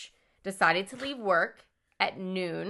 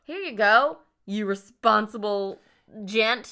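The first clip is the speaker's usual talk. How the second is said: mock praise; 2 semitones higher, 5 dB louder, slower than usual. Mock handing over money.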